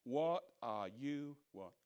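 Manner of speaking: slow, scoffing mock sneer; lightly voiced scornful enemy, slow and drawn out; contemptuous scoff. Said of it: "They scoffed contemptuously".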